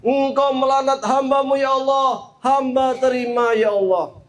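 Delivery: lightly acted protest sinking into acceptance; Iblis aggrieved. Iblis accepts God's curse, aggrieved. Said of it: "kata Iblis".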